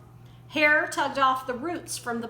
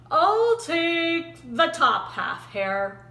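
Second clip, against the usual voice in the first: slow, drowsy bear deciding; a slow, lazy hint of a sleepy bear; 4 semitones higher, 4 dB louder, much slower than usual. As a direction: drag it out half asleep.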